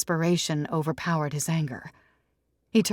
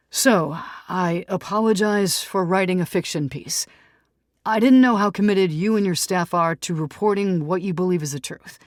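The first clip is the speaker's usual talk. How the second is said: louder, contrite then eager; apologize, then pitch yourself; lightly voiced Tom, apologetic; 3 semitones higher, 6 dB louder than usual. Tom apologizes to Sarah and offers a story, contrite then eager.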